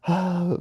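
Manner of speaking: high demonstrated birth-breathing pant; mock panting. Lamaze instructor showing birth breathing, mock panting. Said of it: "like, start panting".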